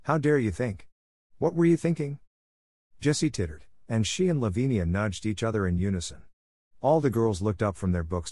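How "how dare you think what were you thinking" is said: high-pitched, outraged questioning; indignant demand. A narrator's reading. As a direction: demand it like an affronted schoolmistress. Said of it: "demanded Miss Minchin".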